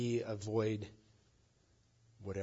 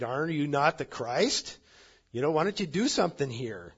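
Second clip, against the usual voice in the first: raised, louder needling question; goading challenge; 4 semitones higher, 6 dB louder than usual. Acted. Robber challenging Jesus to do something, loud and goading. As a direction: press him loudly to prove himself.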